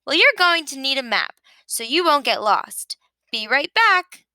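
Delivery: a hint of a chirpy sheep, quick and eager; lightly voiced Sheep. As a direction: rattle it off like a busy know-it-all. Sheep's voice held.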